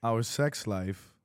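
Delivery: slow, sing-song storybook read; kindergarten teacher voice. Acted. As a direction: read it like to little kids. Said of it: "He just read it like a kindergarten teacher".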